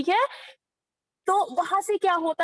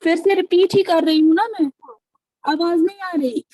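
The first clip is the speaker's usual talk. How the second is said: ऊँची आवाज़ में; 2 semitones higher, 8 dB louder than usual. Real, not acted. खराब लाइन पर ज़ोर से बोलना.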